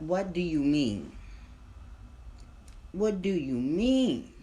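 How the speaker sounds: high, loud, slow repeated "what do you mean"; drawn-out stunned questioning; incredulous. Retold or imitated. Repeating shocked question slowly.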